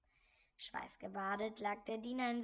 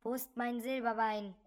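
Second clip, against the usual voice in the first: count's ghostly voice; 6 dB louder than usual. Acted. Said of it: "hörte er den alten Grafen sagen".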